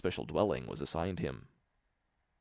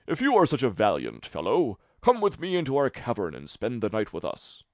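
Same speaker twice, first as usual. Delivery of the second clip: loud, raised giant invitation; 4 semitones higher, 5 dB louder than usual. Acted.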